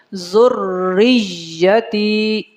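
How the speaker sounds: ذریتی stretched very slowly; drawn out. Shown as a demonstration. Teacher stretching ذریتی slowly as it should be. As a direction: pull ذریتی long and slow. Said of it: "اس کو کھینچ کے پڑھنا ہے".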